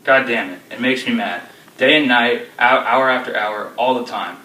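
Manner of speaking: loud, relentless fury; raging father. Acted. Father threatening his disobedient daughter, loud and furious. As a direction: let the anger boil through every line.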